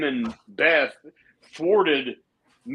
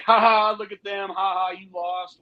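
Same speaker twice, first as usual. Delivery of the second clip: lightly acted heel gloating; gloating mock laugh; 5 semitones higher than usual. Acting out the heels pointing at the losers, mock gloating. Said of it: "point and laugh and be like".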